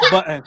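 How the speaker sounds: "button" with a glottal catch, through laughter; British dropped T's. Shown as a demonstration. Testing another British accent word, "button" with dropped T's. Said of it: "they don't pronounce the T's".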